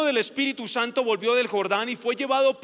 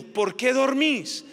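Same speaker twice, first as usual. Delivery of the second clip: Jesus rebuking; slower than usual. Acted. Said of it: "y les dijo".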